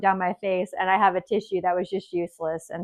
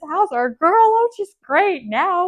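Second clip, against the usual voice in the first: tearful; 8 semitones higher, 4 dB louder than usual. Real, not acted. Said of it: "I'm getting emotional right now".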